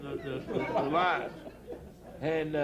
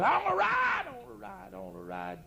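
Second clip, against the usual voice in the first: put-on whiny child; 6 semitones higher than usual. Boy begging his mama for a ride, whining. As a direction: whine it like a stubborn little boy.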